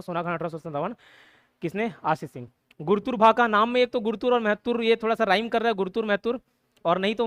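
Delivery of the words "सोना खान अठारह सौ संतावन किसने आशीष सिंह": softer matter-of-fact recitation for memorising; plain rote reading. Shown as a demonstration. Teacher shows students a plain read-through, quiet recital. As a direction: read it out quietly, just running through the list. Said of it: "normally read करके याद कर सकते हो".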